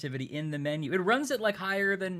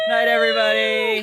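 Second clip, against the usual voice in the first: shouted sign-off, loud and high; loud goodbye; 6 semitones higher, 12 dB louder than usual. Real, not acted. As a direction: call out goodnight to the viewers. Signing off the stream.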